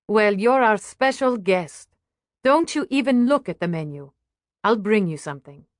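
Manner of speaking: lightly voiced hospitable hostess, a little lifted; welcoming waitress. Waitress to special guest, lightly hospitable. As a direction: make a mild fuss of a guest.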